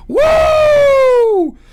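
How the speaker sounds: loud high woo; high whooping cheer. Real, not acted. Cheering Greg Abbott's law, whooping loud. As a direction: whoop in triumph. Celebrating again.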